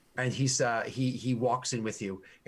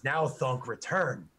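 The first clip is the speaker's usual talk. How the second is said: slow broken-grammar orc boasting of his hero; proud orc guard; slower than usual. Acted. Orc guard proudly tells the party who Grommen is, slow boasting. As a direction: puff up and drag out each boast like a devoted grunt.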